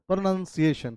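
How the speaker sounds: प्रोनंसिएशन with a short "nun" in the middle; model pronunciation. Shown as a demonstration. Teacher answering own quiz, प्रोनंसिएशन with "nun". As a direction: say प्रोनंसिएशन as pro-nun-si-ay-shun. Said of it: "क्या बोलिएगा?".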